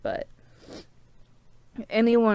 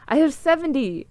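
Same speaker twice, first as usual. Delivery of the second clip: higher, louder burst of pride; excited retold boast; 6 semitones higher, 8 dB louder than usual. Telling viewers about seventy subscribers, excited and louder. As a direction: blurt it out, thrilled with your count.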